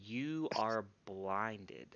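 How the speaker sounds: slow, breathy whispered verdict; dramatic whisper. Acted. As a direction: whisper it like a doom. GM delivers harsh sentence dramatically.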